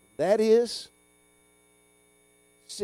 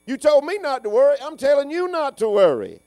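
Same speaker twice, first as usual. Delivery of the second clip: higher and louder, playful back-and-forth; voicing the neighbor; 9 semitones higher, 7 dB louder than usual. Shown as a demonstration. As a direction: answer your neighbor with the same reassurance. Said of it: "tell them the same thing".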